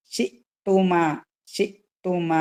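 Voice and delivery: a brief stop inside ഷിത്തുമ after ഷി; cut-off hamza. Shown as a demonstration. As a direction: cut ഷിത്തുമ sharply after the first syllable. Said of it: "cut ചെയ്ത് pronounce ചെയ്യാ".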